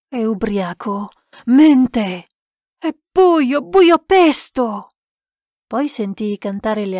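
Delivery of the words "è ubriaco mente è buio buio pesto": loud, high accusing cries, slowing at the end; frantic denial. A narrator's reading. Lost man calls gamekeeper a liar, shouting frantically. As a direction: shout down the truth in desperation. Man refuses to believe it is morning.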